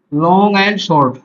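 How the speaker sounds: very slow, drawn-out dictation; dictating while writing. Real, not acted. Teacher writes word pairs for students, slow dictation. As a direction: stretch each word out as you write.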